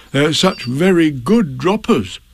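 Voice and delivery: slow, lightly voiced bear; unhurried, earnest character voice; Pooh's voice. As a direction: explain it slowly and simply. Pooh explains jagulars.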